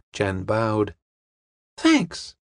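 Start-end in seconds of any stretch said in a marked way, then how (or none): 1.8-2.4 put-on high, pleased young woman's voice; smiling thanks. A narrator's reading. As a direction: say it with an audible smile, pitched high. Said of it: "smiled the girl".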